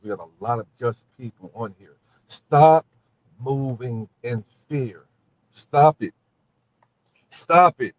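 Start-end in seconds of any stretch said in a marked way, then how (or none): 2.3-7.9 forceful shout. Real, not acted. Urging listeners to stop fearing.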